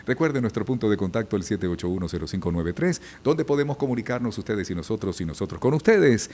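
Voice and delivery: mock announcer reeling off contact details; radio DJ patter. Veteran mimicking DJs giving listeners the phone number, light announcer patter. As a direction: parody empty stock radio talk, lightly. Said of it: "puro disjoqueadito".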